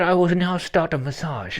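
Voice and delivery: loosely imitated Slavic accent; her Polish accent. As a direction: put on a Polish masseuse's accent. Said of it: "in her accent".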